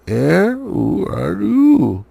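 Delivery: high, slow, squeaking little voice; startled purse squeaking at the thief; squeaky purse. A narrator's reading. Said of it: "it squeaked".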